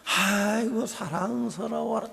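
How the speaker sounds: high, slow, sugary mock affection; a husband hitting with feigned loving delight; mock sweet adoration. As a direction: coo it like a doting spouse. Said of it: "탁 이렇게 안 때리잖아".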